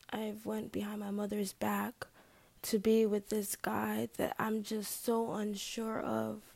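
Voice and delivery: hushed confession; whispering. Real, not acted. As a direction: whisper it like a secret. Secret about the boyfriend.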